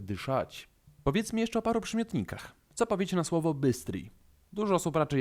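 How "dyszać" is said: dyszać stressed on the final -szać; stress on last syllable. Shown as a demonstration. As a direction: hit the last vowel of dyszać. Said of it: "akcent pada na ostatnią samogłoskę".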